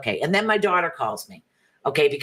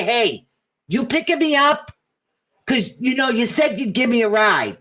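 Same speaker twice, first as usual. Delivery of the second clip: mock grown kid calling; 7 semitones higher than usual. Imitating grown kids calling parents, high nagging whine. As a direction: pitch it up like an adult child nagging. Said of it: "call and say".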